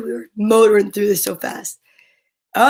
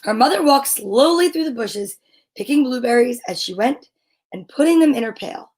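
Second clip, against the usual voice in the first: measured picture-book narration with pauses; reading to children. A narrator's reading. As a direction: read it aloud to little kids, phrase by phrase.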